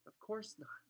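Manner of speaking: high, brisk dismissal. A narrator's reading. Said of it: "said Hermione briskly".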